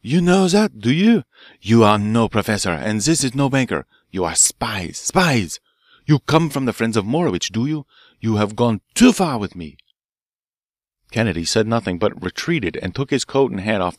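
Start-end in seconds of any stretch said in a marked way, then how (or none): 0.0-9.8 shouting in anger. Acted. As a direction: rage at the spies, jabbing a finger. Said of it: "he shouted".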